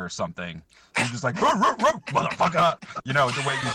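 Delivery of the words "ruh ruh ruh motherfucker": mock bark. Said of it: "you barked at him".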